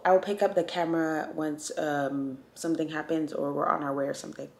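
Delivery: groggy raspy morning voice. Real, not acted. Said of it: "I saw that raspy voice. I saw that morning voice".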